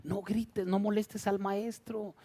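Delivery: soft, slowed hushing; hushing disciples. Acted. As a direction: quietly shush someone being noisy. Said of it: "Y los discípulos van y le dicen".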